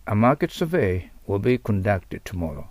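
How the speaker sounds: slow, careful English example; slow model sentence. Shown as a demonstration. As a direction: read it so learners can repeat. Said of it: "example sentence read slowly".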